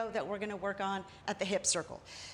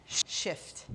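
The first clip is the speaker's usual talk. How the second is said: whispered cue; 5 semitones lower than usual. Shown as a demonstration. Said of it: "counting moves aloud".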